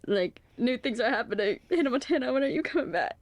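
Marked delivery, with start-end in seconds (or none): 1.7-3.2 put-on higher, pleading call to an old show; mock plea to a childhood show; playful plea. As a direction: beg the show to come back. Calling out to old shows.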